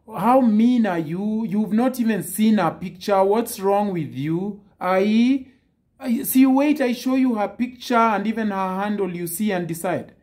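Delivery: hammed-up outrage at being turned down; mock ballistic rant. Retelling a woman who went ballistic over rejection, mock angry rant. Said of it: "She went ballistic".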